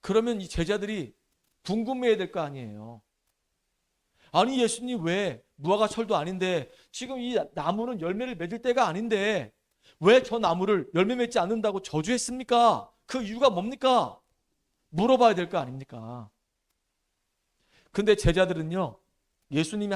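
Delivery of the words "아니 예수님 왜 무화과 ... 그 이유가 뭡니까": raised, puzzled asking voice, a bit louder; disciples questioning Jesus. Pretend. Disciples asking Jesus why he cursed the tree, puzzled and pressing. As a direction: ask the teacher why, baffled and pressing.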